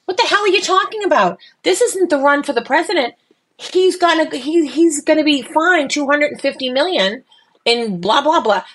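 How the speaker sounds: high, brassy put-on Boston accent; mock Boston accent. Scolding Melania in a joking Boston accent. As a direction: tell her off in a hammed-up Boston accent. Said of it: "in my best Boston accent".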